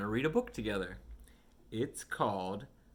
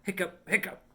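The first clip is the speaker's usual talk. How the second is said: higher, hiccupping out each word; hiccup sounds; 8 semitones higher, 6 dB louder than usual. Acted. Kitty Pete hiccupping for the listening child, playful hiccups. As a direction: hiccup it like a kitten.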